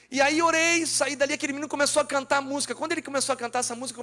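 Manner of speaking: mais alto e agudo, acelerado; empolgação crescente no testemunho; pregando com força. Real, not acted. Clímax da pregação. (pregação empolgada e acelerada)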